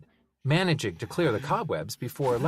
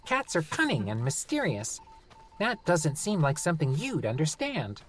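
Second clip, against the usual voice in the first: condescending gnome; 5 semitones higher than usual. Acted.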